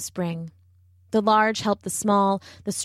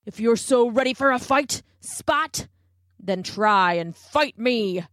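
put-on challenging young tiger; 3 semitones higher than usual. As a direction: dare him to fight.

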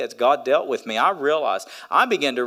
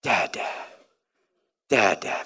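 put-on soft, whispered baby calling; sleepy toddler call; 4 semitones lower, 6 dB quieter than usual. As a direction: breathe Dad like a waking toddler. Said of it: "the first thing he says".

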